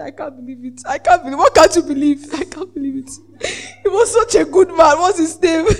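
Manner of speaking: laughing mock sobs of disbelief; fake crying. Hired mourner crying for a stranger, fake crying. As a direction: sob falsely, barely holding back laughter.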